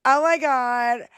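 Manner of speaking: put-on drawn-out, lightly exasperated Valley Girl; mock Valley Girl. Podcaster mocks how maga bros talk, mock Valley Girl. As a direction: drag the words like a ditzy Valley Girl. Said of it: "turned into a Valley Girl when they speak".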